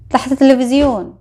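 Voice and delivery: whispered answer. Shown as a demonstration.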